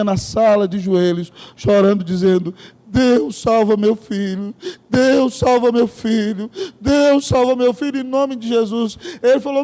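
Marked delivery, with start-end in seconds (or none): 2.9-9.0 slow, imploring mother's prayer; a touch of a tearful plea; lightly voiced pleading prayer. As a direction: beg God for her son, slowly. Mother praying on her knees.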